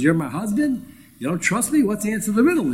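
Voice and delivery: a sly wife's complaint; sly complaining wife. Retold or imitated. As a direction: nag him slyly for the answer. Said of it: "in a very sly way, starts complaining".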